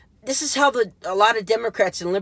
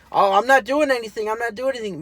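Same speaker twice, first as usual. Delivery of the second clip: high, loud sing-song denial; mocking impression; 8 semitones higher, 4 dB louder, faster than usual. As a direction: parody a fake innocent denial, pitched up. Mocking liberals' fake innocence.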